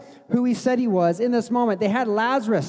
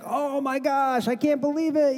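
amazed gift reaction; 3 semitones higher than usual. Retold or imitated. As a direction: imitate someone thrilled by a gift. Imagined reaction to opening a gift.

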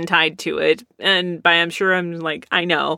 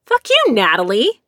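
mock outburst; 3 semitones higher than usual. Real, not acted. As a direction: fling it out in mock fury. Sudden outburst at Natalie.

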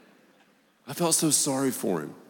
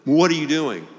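startled catch; 4 semitones higher than usual. Retold or imitated. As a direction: catch yourself mid-curse. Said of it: "Just like".

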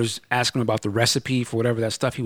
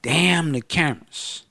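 dismissive; 2 semitones higher, slower than usual. Retold or imitated. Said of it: "I was like".

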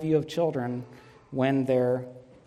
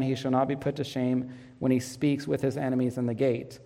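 scripture reading. Acted. Pastor reading Psalm to his church, solemn reading. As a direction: read the verses out to the congregation with weight. Reads Psalm 127 aloud.

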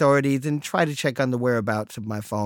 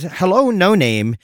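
chirpy assistant voice; 4 semitones higher, 4 dB louder than usual. Retold or imitated. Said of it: "it no longer says".

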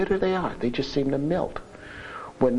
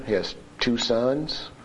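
usual speaking voice

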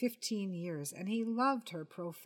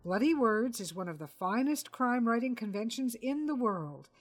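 louder, pompous defence of his craft; mildly indignant writer; 3 semitones higher, 3 dB louder than usual. Acted. Enoch defending his convention to Portia, lightly pompous. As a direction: puff up and defend his vocation.

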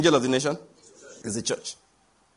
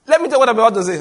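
loud prophetic declaration; thunderous wrathful prophet; 7 semitones higher, 9 dB louder, much faster than usual. Acted. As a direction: proclaim it like a prophet. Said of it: "I'm speaking like a prophet".

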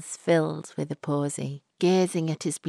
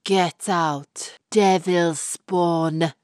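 slow, louder hostile spit; spat; 5 dB louder, much slower than usual. Acted. Fortune teller drives Florrie out, spitting and louder. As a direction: spit out devil spawn. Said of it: "The woman spat the words".

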